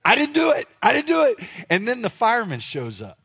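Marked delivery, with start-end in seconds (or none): 0.1-1.4 high-pitched comic protest; hurried high defensive squeal; panicked denial. Retold or imitated. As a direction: plead innocence to the staring neighbors. Protesting innocence to staring neighbors.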